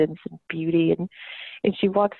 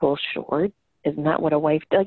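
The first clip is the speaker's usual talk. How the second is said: lightly voiced mother, taking it for granted; a hint of a deep-voiced mom; mom impression; 3 semitones lower than usual. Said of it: "very deep smoker's voice and this very strong Boston".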